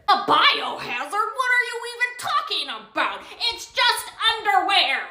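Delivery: high mocking disbelief, laughing at the idea; incredulous customer. Customer scoffs at cashier refusing her return, high incredulous scoff.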